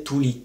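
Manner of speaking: "tuli" with short u and short l. Shown as a demonstration. Teacher comparing three Finnish words, short "tuli" first. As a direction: keep "tuli" short on both sounds. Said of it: "une différence dans la prononciation".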